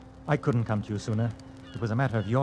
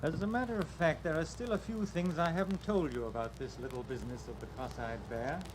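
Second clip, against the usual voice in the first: menacing quiet; 3 semitones higher, 7 dB quieter than usual. Acted. Bill reveals his wall safe to her, quiet menace. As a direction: drop the voice to a threat.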